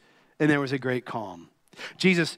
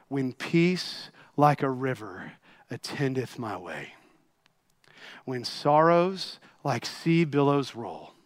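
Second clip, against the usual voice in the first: hushed hymn reading. A narrator's reading. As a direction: read the words like a sacred poem. Reciting hymn softly.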